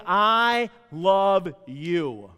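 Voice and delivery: very slow, stretched-out I love you; drawn-out heartfelt I love you; said with meaning. Shown as a demonstration. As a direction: lean into every word. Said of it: "And say it with meaning".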